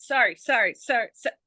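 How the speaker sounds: quick reflex string of sorries; rapid-fire apologies. Retold or imitated. Retelling being bumped on the subway, rapid-fire apologising. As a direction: fire off sorry after sorry.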